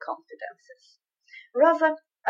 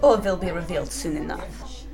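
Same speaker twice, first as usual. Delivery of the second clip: menacing threat; 4 dB louder than usual. Acted. Villain threatens at gunpoint.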